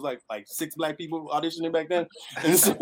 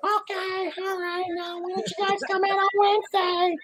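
imitating her very high-pitched voice; high-pitched mock agent voice. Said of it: "she had, like, a very high-pitched voice".

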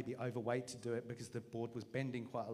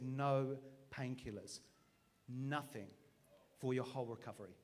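calm divine voice; 3 semitones lower, 4 dB quieter than usual. Retold or imitated. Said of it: "And he said".

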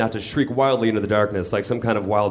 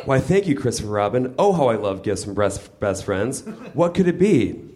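Pooh Bear voice. Acted. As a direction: play the dim, cheerful toy bear.

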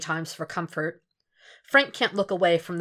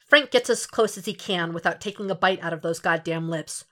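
ordinary delivery, nothing marked

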